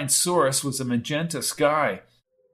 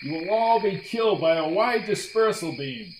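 yelling commander; 4 semitones higher than usual. A narrator's reading. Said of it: "Brady could hear Grok yelling".

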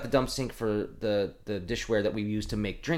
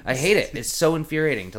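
louder, exasperated venting; worked up; 4 semitones higher, 5 dB louder than usual. Real, not acted. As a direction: vent real irritation about a daily battle. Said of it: "I'm getting worked up again".

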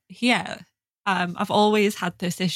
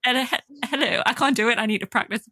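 a laughing mock posh hello, higher; fumbling attempt at a Queen voice; mock RP greeting, half laughing; hammed-up posh RP; 4 semitones higher than usual. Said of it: "it was like".

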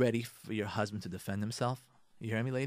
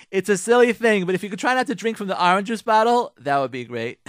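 light and casual; 7 semitones higher, 9 dB louder than usual. Shown as a demonstration. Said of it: "don't make a big deal".

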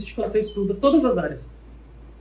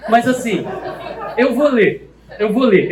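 laughing; 3 semitones higher than usual. Real, not acted. Preacher laughing to the class as he starts reading. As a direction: chuckle through the words, amused.

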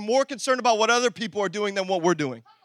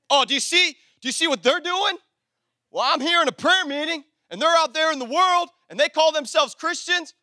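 higher-pitched judgmental churchgoer; mock self-righteous indignation; 5 semitones higher than usual. Preacher imitating a churchgoer judging other Christians, mock indignant. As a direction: tattle on other believers in pretend disapproval.

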